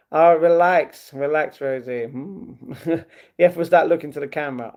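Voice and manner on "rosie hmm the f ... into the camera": ordinary talk, nothing marked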